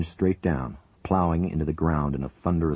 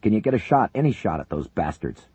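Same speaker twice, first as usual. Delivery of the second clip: shouted; 5 semitones higher, 4 dB louder than usual. Acted. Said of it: "Buchanan shouted".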